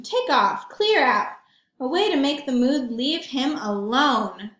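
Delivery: put-on lively read-aloud for kids; storybook narration. A narrator's reading. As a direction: tell it to the children with relish. Reads picture book aloud.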